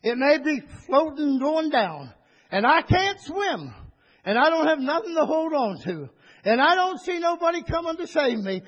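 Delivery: high, fervent testimony of a sinking man; joyful believer in trouble. Acted. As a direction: cry out your trust in God while going under.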